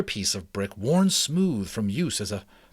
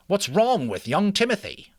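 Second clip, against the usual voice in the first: put-on higher, kindly old mouse; 9 semitones higher, 4 dB louder than usual. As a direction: speak as a wise old mouse. Ages speaks.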